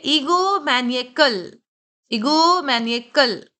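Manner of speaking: "ईगोमैनिएकल" drawn out slowly and clearly; model pronunciation. Shown as a demonstration. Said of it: "पहले आप इन words को pronounce करिए". ("ईगोमैनिएकल" धीरे, साफ़ उच्चारण)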